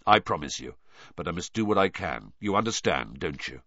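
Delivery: low-key, earnest promise; sincere, understated reassurance; reassuring godfather. Acted. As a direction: gently ask for understanding.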